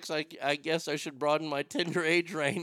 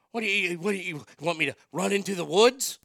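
imitating dad; 4 semitones higher, 5 dB louder than usual. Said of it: "When he said".

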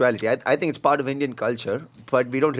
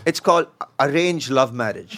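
laughing; slower than usual. Real, not acted. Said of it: "you know what that's called".

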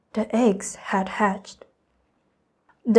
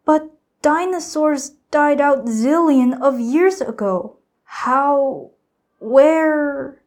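astonished; 5 semitones higher, 5 dB louder, slower than usual. A narrator's reading. Sam astonished by dinosaur eggs.

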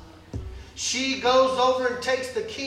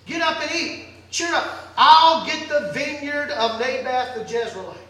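bossy wife; 5 dB louder than usual. Acted. Jezebel ordering her husband.

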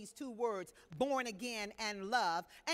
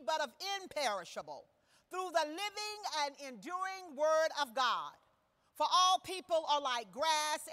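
steady, raised reading of Bible verses; scripture reading; 2 semitones higher than usual. Acted. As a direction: proclaim the passage to the congregation. Reads scripture aloud.

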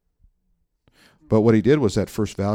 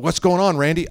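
higher, louder exasperated phone answer; mock-annoyed, raised voice; aggravated; 9 semitones higher, 5 dB louder than usual. Pastor answering his friend's third call, aggravated. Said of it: "I'm aggravated".

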